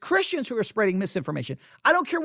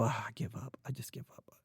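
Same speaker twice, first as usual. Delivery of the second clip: much softer weary sigh of surrender; exasperated parent; 8 semitones lower, 16 dB quieter than usual. Retold or imitated. Parent leaving the kid's room, soft defeated give up. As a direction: let it fall away, giving up. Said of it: "that parent that just wants to go".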